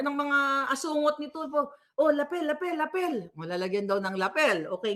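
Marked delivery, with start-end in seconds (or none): 2.0-3.1 higher, repeated mock call; fussing crew call. Host mimics crew asking for a lapel mic, fussing. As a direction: lightly imitate crew calling for a mic.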